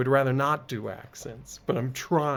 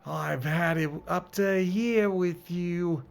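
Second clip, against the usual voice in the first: put-on fed-up British accent, higher pitch; 4 semitones higher than usual. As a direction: lose patience in a British accent. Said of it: "this game wants me to do accents".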